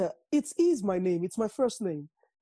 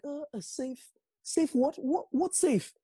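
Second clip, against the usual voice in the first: confused mock panic; 8 semitones higher, 5 dB louder, slower than usual. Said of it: "I was like".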